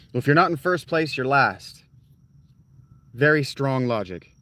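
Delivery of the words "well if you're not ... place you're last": dad quote. Retold or imitated. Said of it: "Ricky Bobby kinda dad".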